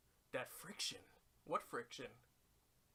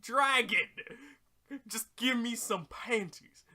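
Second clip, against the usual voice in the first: higher, loud whiny begging; whiny plea; 7 semitones higher, 9 dB louder than usual. Pretend. Oolong begging the dragon, high whiny plea. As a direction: whine it high and desperate. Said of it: "And you're like".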